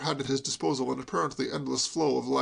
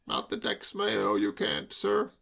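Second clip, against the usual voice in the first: curt; 5 semitones lower, slower than usual. Acted. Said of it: "Bolt spoke a little curtly".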